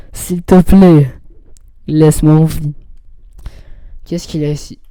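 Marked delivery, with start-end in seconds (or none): 0.1-2.7 loud, drawn-out mock plea; mock pleading. Player begging the game to spare him, mock pleading. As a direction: plead loudly, stretching it out.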